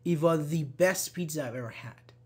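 "the" as a stressed "thee" before best; emphatic "the". Shown as a demonstration. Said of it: "when you wanna emphasize".

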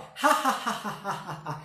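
sarcastic soap-opera villain laugh. Shown as a demonstration. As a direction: cackle like a telenovela villain. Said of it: "risada sarcástica ... de vilão de novela".

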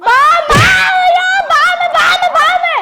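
mock panic. Son pretending panic at snake.

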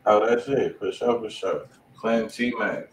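ordinary talk, nothing marked

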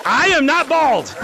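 "I am not bald" slow and deliberate; emphatic denial. Real, not acted. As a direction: draw out each word of "I am not bald". Denies being called bald.

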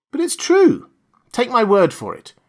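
high, pushing protest; insistent plea. Acted. Cornered boss insists to the gunman, high and pleading. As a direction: insist hard, voice climbing.

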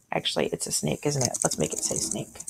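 muttered aside. Real, not acted.

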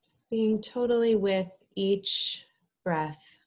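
measured, calm instruction with space to breathe; guided meditation. Real, not acted. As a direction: lead them gently into stillness, phrase by phrase.

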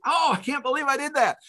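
high-pitched mock mortification; put-on high voice of dismay; imitating horrified wife. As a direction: lament it as an embarrassed wife. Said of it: "Julie is horrified".

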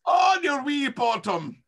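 mock cute. Repeating the GM's cute phrase.

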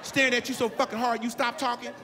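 high, loud indignant question; emphatic shout. Real, not acted. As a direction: shout it at the crowd in disbelief. Ranting question to crowd.

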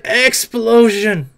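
slow, drawn-out spell shout; hammed-up magic incantation; mock spell cast. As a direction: stretch the spell name out. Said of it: "I'd be like".

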